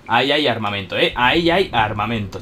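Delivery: loud, thrilled announcement; excited. Real, not acted. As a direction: call out the loot excitedly. Excited loot find.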